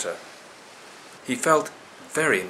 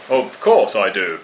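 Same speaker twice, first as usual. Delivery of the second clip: louder cocky monkey voice; cheeky monkey; 8 dB louder than usual. A narrator's reading. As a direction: brush it off like a sly monkey. Monkey lying to dolphin.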